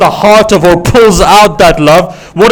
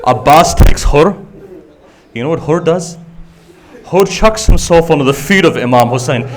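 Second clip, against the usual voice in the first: subdued sermon narration. Acted. Preacher telling of Imam Hussein lifting Hur up, subdued and tender.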